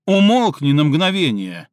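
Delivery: loud, sharp command to shut up; barked order. Acted. Stinov cutting off Cindy on the phone, barking. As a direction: bark him into silence. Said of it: "рявкнул в ответ Стинов".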